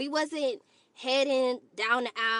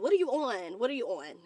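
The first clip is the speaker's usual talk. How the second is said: fading incredulity; 3 dB quieter than usual. Real, not acted. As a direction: let it drop each time. Repeated question, fading.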